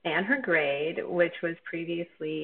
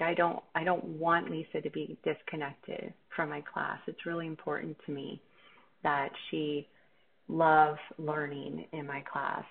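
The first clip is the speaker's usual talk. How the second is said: calm, measured reply. Pretend. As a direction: answer the parent gently, as if it really matters. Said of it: "responded rather than reacted".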